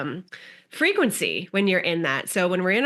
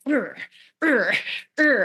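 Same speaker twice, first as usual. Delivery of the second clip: mock effortful grunts; 7 semitones higher than usual. Shown as a demonstration. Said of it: "so it can be more like this versus like".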